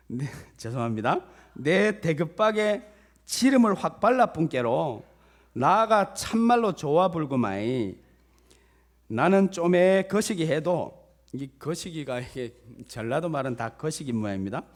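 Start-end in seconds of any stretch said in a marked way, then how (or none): 1.5-11.0 loud, hearty put-on Jeolla accent; hammed-up Jeolla recitation; Jeolla dialect. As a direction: proclaim it in folksy Jeolla dialect. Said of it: "전라도 버전이더라고요".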